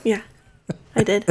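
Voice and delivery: wheezing after hard laughter; breathy wheeze after a laughing fit; wheezy voice. Real, not acted. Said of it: "I'm wheezing too".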